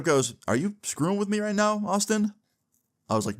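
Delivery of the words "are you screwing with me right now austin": high incredulous mock gasp of a question; shocked disbelief. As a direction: pitch shoots way up in stunned disbelief. Mom stunned by the cancer lie.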